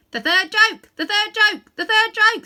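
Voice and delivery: shrieking jackdaw, very high and loud; great excitement. Acted. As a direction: cackle the line over and over, thrilled. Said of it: "in great excitement".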